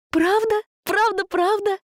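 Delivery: put-on high, eager asking girl; excited disbelief. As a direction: plead for confirmation, thrilled. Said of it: "не верила помощница".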